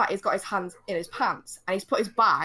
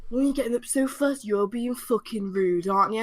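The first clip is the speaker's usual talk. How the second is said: mimicked rebuke, slowing on the insult; accusing man. Man scolds passenger for getting up, mimicked accusation. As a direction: put on the man's reproach.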